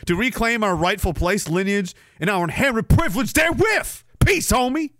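a touch of a put-on Irish lilt, rising to a high sign-off; attempted Irish accent. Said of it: "should I be doing it in an I accent".

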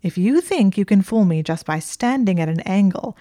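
mild barely held fury; seething. Acted. Hermione scolding Draco for lying, seething. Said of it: "she was seething".

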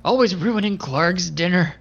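slow grumbling villain shout; Clark yelling. Acted. Clark yells down the hallway at the goblin, slow and grumbling. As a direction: drag it out like a spoiled brute. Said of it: "Clark just sorta yells out".

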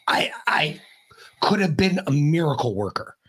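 breathy half-crying whisper; a hammed-up whimper of regret; mock tearful whisper. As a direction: whisper it like you're about to cry. Wistful mock lament about the door.

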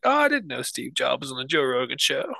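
confused listener voice. Retold or imitated. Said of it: "they would be like".

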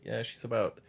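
drawn out, each number lingering; a caller slowly giving a missing woman's size; slow deadpan. Retold or imitated. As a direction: spell it out slowly as if it's normal. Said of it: "She's like".

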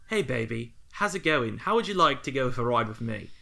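rough mock-Australian temptress; Australian accent. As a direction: do a loose Australian accent for a seductress. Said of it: "I'm giving her Australian accent".

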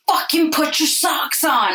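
high, slow mock-furious snap at the kids; mock exasperated; mock exasperated mom. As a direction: act out the frazzled mom losing it. Angry mom in head.

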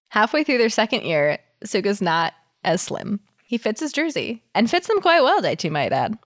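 reading a story aloud; cozy fanfic reading voice; story narration. Acted.

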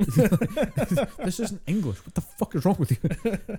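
high-pitched mock outrage through laughter; slow, squealing disbelief, cracking up; laughing exasperation. Acts exasperated onlooker through laughter.

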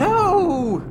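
high, loud joyful shout; exultant cry. Acted. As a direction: ring out with triumph. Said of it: "The cry rang with exultation".

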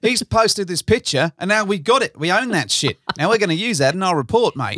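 high, bragging bad Australian accent; gloating Aussie picture thief, hammed up; terrible Aussie accent. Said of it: "terrible Aussie accent impression".

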